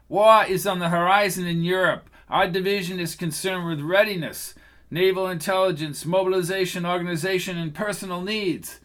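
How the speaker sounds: a smug agent talking down; cocky agent. Acted. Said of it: "He sounded cocky and self-assured".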